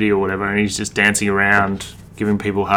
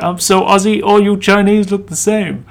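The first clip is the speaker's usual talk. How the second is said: imitating Danny; 11 semitones higher, 6 dB louder than usual. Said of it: "He's like".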